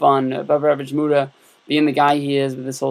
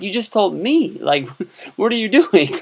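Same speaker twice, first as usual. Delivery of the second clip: incredulous; 6 semitones higher than usual. Retold or imitated. Mock disbelief at clerk.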